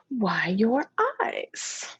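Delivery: slow, breathy whisper. Acted. Imaginary friend whispering to the girl, slow and hushed. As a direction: hush it like a secret, slowly.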